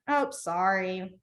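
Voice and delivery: slow, offhand oh sorry; a dismissive, not really meaning it sorry; careless sorry. Shown as a demonstration. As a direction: brush it off like you don't care. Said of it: "Like you don't really care".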